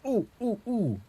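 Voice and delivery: high, short "ooh" yelps; mock pained oohs. Man imagining himself on the cramp simulator, mock pained oohs. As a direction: play at being jolted by pain. Acting out cramp pains while singing.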